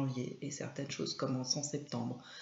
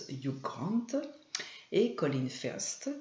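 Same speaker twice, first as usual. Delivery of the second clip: English accent attempt. Shown as a demonstration. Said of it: "désolée pour mon accent".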